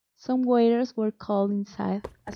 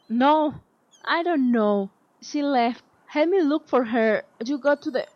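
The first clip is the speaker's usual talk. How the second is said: panicked frantic pleading; 4 semitones higher, 4 dB louder than usual. A narrator's reading. Frantic search for lost princess.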